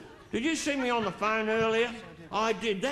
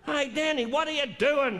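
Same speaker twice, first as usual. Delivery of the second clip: yelling out; 4 semitones higher than usual. Retold or imitated. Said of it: "she yells out".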